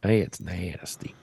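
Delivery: low whisper, no voice; whispered creep. Pretend. Host mocks a creepy dancer, whispered. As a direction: breathe it out, creepy and hushed.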